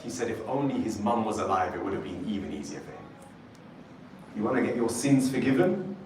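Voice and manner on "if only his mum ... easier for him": soft, faster aside fading away; mumbled under breath. Retold or imitated. Prophet mumbles softly to himself as the man leaves. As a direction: murmur it to yourself as he walks off. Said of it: "the Prophet whispered, he mumbled under his breath".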